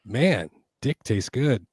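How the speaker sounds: slow, teasing take on an Australian; imitation Australian. American teasing Australian friends with a slow imitation Australian. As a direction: drag it out as a joke Australian impression. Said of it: "my imitation of an Australian".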